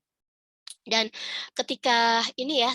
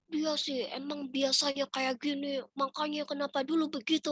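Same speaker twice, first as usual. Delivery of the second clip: nagging thought dragged out; inner grumble; 4 semitones higher, 5 dB quieter than usual. Acted. Voices nagging thoughts inside her head.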